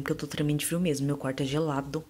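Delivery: shivering. Real, not acted. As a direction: voice trembling from the cold. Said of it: "meio tremendo".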